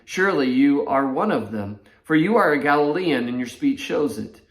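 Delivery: measured Bible reading to the congregation; scripture reading. Acted. Pastor reading Mark to the church, steady scripture reading. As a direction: read the passage steadily, letting the quotes land.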